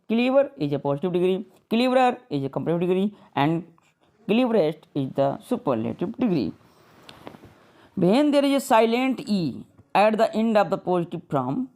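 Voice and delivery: slow, deliberate reading of a textbook rule; slow rule dictation. Shown as a demonstration. Teacher reading a grammar rule to students, slow and deliberate. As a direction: spell the rule out slowly for the class. Reads English rule aloud slowly.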